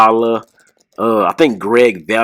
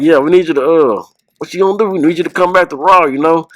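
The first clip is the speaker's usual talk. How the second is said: higher-pitched, lightly imitated wrestler; The Rock; 5 semitones higher than usual. Cousin coaxing Terry Funk back to Raw, mock Rock voice. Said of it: "my cousin had the Rock voice".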